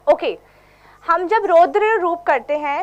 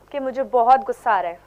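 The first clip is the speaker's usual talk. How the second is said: angry demo; 6 semitones lower than usual. Shown as a demonstration. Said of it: "अगर मैं रौद्र रूप करूंगी तो कैसे करूंगी".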